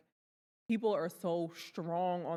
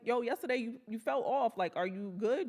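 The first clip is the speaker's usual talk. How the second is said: direct check-in; 4 semitones higher than usual. Shown as a demonstration. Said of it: "double down and be like".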